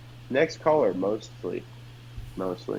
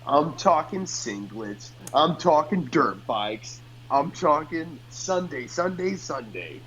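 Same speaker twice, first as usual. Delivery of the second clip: booming monster truck announcer; 4 semitones higher than usual. Pretend. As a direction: hype it like a radio ad. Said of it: "I was trying not to break character".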